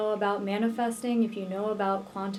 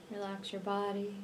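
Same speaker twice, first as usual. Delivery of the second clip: unhurried meditation voice with long pauses; guided meditation; 6 dB quieter than usual. Real, not acted. Healer leading listeners to visualize twin flame union, guided meditation. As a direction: guide the listener gently into relaxation, leaving space between phrases.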